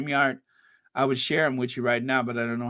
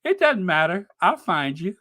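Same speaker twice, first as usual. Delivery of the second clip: playful higher menacing repeat; smiling menacing loan shark; 3 semitones higher than usual. Shown as a demonstration. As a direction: tease the threat with a grin. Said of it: "you sound like a loan shark".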